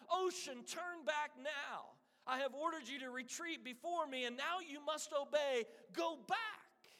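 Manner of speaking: high shout, ocean drawn out slowly; shouted command. Acted. King Canute screaming at the sea to turn back. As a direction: bellow at the waves to retreat. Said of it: "Canute shouted".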